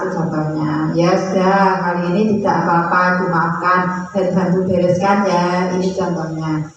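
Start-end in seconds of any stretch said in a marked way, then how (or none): 1.0-5.7 lightly acted friendly forgiveness, a touch gentle; friendly teacher. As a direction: let the pupil off kindly, in an understated way.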